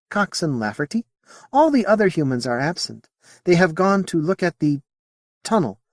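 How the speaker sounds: high, lilting alien voice; a curious alien, politely puzzled; alien Modi voice. Acted. Alien answering Sally's question in a high voice.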